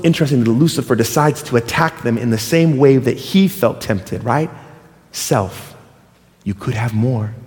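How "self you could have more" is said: tempting whisper. Acted.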